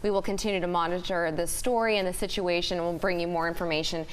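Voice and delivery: brisk, urgent anchor read; breaking news. Acted. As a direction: deliver the bulletin with urgency.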